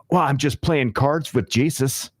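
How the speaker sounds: drawn-out, matter-of-fact declaration; slow deadpan quote. Retold or imitated. Regular at the bar tells the manager calmly, slow and deadpan.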